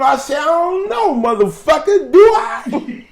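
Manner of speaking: hammed-up defiant gym rat; Stonewall's voice, ranting. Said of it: "That's how he talks".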